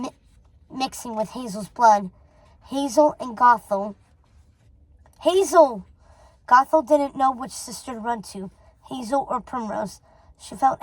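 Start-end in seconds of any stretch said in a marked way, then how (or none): 5.2-5.8 loud alarmed cry of a name. A narrator's reading. Sister crying out as Hazel is thrown. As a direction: call out in shock. Sister flung across the room.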